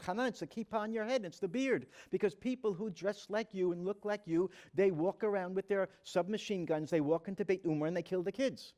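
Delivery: Jamal blurts it out, flustered that Hanan doesn't understand. Retold or imitated. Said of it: "He got flustered".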